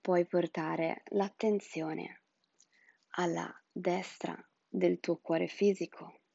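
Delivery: breathy whispered meditation guidance. Acted. (sussurro rilassante da spa)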